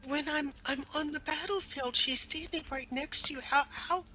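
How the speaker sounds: agitated disbelief. Acted. Disbelief at grandmother's betrayal.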